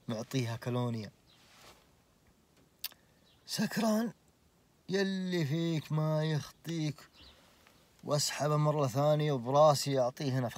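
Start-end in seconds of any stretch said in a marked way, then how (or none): 3.5-7.1 mock disbelief. Mocking the drunk in disbelief.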